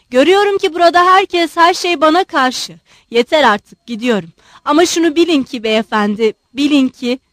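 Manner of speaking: loud protest, high at the start; indignant outburst. Acted. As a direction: protest loudly as you storm out. Offended general announces he is leaving.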